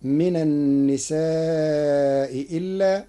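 slow madd on النساء, gliding into إلا; النساء إلا with tas-heel; eased hamza in النساء إلا. Shown as a demonstration. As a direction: stretch النساء, then soften the second hamza of إلا. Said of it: "بتسهيل الهمزة الثانية".

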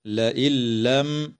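لئن لم with the nun merged into the lam, no nasal; slow careful لئن لم. Shown as a demonstration. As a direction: say لئن لم as la'il-lam, with no humming. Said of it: "تدغم النون الساكنة في اللام من غير غنة".

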